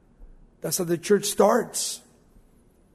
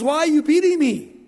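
donkey voice; 5 semitones higher than usual. Retold or imitated. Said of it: "and his donkey says".

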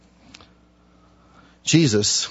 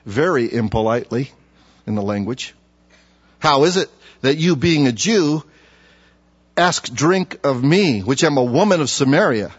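scripture reading. Acted. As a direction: read the verse with weight. Preacher reads scripture aloud.

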